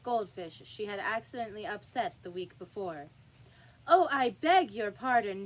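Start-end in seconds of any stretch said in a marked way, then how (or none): 3.9-5.5 flustered, loud apology; great dismay. A narrator's reading. Alice apologising to the toppled jurymen, in loud dismay. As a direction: blurt it out in alarm. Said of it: "in a tone of great dismay".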